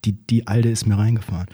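breathless whispered curse; whispered thought. Retold or imitated. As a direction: hiss it under your breath in shock. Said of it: "Und ich denk so".

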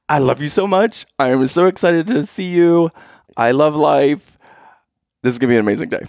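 high, gushing mock delight; gushing mode one. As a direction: imitate her sweet, over-excited mood. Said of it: "Mode number one".

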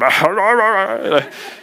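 high burst of laughter at himself; real laugh. Real, not acted. Pastor laughing at himself crying over letter, real laugh. Laughing at his own bawling.

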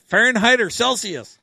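high, loud nerdy question; goofy high voice. Retold or imitated. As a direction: goofball asking earnestly. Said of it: "He said".

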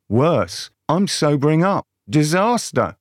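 mild mock moan of dismay; understated comic wail of disaster. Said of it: "moaned Hansel".

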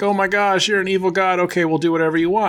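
high, hurried panicked surrender; play-acted fright, rushing to give in; mock alarm. Henchmen seeing Loki is an evil god, mock-alarmed. Henchmen cowed by Loki's true form.

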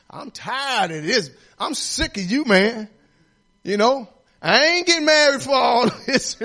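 laughing start, builds to a shout; fed-up husband rant. Retold or imitated. Preacher acting out a husband who has had enough, a laughing rant rising to a shout. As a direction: vent like a husband at the end of his rope.

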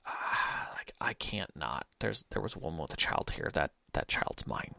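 low conspiratorial whisper of a fae; sneaky whisper. Retold or imitated. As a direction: whisper it like a guilty secret. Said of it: "the player was just like".

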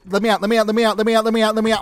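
frantic shouts to be let out; desperate yelling. Acted. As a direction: pound the door and yell. Locked in, begging to escape.

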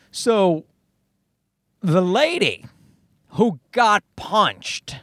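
drawn out slowly, each word weighed; dramatic slow reveal. Shown as a demonstration. Host teasing ladies and gentlemen, slow dramatic reveal. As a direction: stretch it out like a big announcement. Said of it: "This is where it gets interesting".

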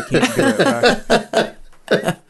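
Liam Neeson voice. Pretend. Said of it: "I'm trying to pull out a Liam Neeson voice".

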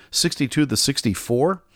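"Sixty-two to sixty-four?" asked with a scoffing rising tune; mocking disbelief. Real, not acted. Host mocking French outrage over a two-year raise, scoffing disbelief. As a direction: scoff at the small number as if it were nothing. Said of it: "that sounds like a holiday".

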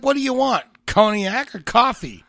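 barked in a loud, high mock German; mock angry German. Friend mocking the German film dialogue, loud and angry. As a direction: snap it like a gruff German host. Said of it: "an angry sounding language".

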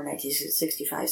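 ordinary delivery

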